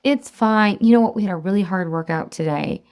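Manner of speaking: breezy mock self-excusing; permission-giving. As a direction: talk yourself into a treat, lightly acted. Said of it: "all kinds of permis-, permission-giving thoughts".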